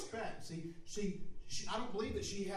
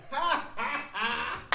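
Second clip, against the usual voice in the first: a higher, mock "Ha, ha, ha"; my own laugh; 7 semitones higher, 6 dB louder, much slower than usual. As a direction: show off your own laugh, pitched up. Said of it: "Then I got the".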